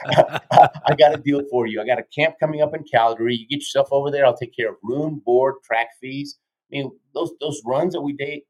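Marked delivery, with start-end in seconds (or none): 0.1-6.4 put-on slow and deliberate, Austrian accent gone; slow, accent-free coach. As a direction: spell out the offer slowly like a salesman. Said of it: "It's like he totally lost his accent".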